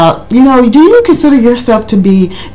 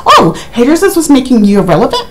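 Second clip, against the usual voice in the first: Andy impression, laughing; 5 semitones higher, faster than usual. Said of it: "it was funny how he said it".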